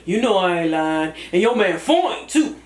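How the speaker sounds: older cousin giving advice with a hint of a deep Atlanta voice; Cousin Fat. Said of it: "Cousin Fat is gonna give you that older cousin advice".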